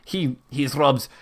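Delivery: put-on lightly German-accented baron; halting European-accented speech; attempted German accent. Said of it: "the Baron continues his speech".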